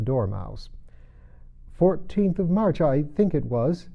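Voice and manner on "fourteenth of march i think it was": Hatter voice. Acted. Hatter answering.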